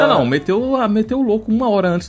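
mock high voice. Imitating absent cohost.

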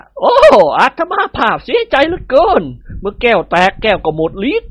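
a lightly voiced regretful holy man; sorrowful old yogi. A narrator's reading. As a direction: express gentle regret. (มหาโยคีพูดเสียใจ)

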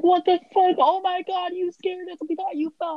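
imitating a loud, high shocked outburst; shocked relief. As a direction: play the startled strangers scolding her. Strangers relieved after a scare.

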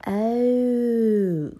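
high, loud, drawn-out breathy Oh; Peppa's excited gasp. A narrator's reading. Peppa hearing about the vegetables, excited gasp. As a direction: gasp in delighted wonder. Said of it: "gasped Peppa excitedly".

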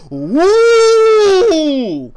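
loud, high startled whoop; shocked whoop. Retold or imitated. Roommate opening the door, a loud high startled whoop. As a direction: let out a big shocked woo.

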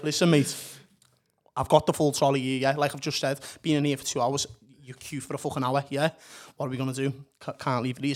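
low-pitched, retold controlled anger; contained fuming. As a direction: fume without screaming, voice held down. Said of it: "if I'm fuming, you'd expect someone to scream".

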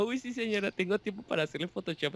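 sarcastic. Pretend. Sarcastic inner reply to customers.

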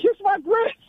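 high, sassy kiss my grits; sassy waitress catchphrase. Acted. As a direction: toss it off like a diner waitress. Quoting Flo catchphrase.

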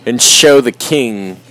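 slow, pompous mock-colonist proclamation; drunk colonist. A friend playing a drunk colonist addressing the king, slowly. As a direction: drag it out like a tipsy patriot.

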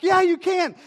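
loud, high-pitched acted answer; high mock reply. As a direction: call it back high and loud. Dad mimics reply to running girl.

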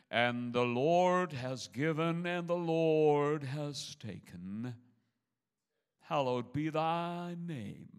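slow, loud, drawn-out funeral reading; solemn funeral preacher. Retold or imitated. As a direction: intone it like a pompous minister at a graveside. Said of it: "I heard this, I will never forget it".

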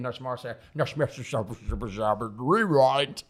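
chanted slang, jokey rapper; dancehall toast. Pretend. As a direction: play it like a mock MC shoutout. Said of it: "Hashtag clear skin".

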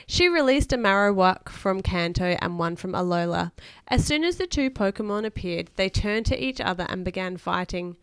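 put-on lively read-aloud to a child; expressive bedtime story reading. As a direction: read a children's adventure aloud with emphatic key words.

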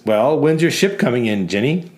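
lightly voiced jeering bar customer; mocking customer. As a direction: tease the barmaid about her ship. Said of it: "one of them says".

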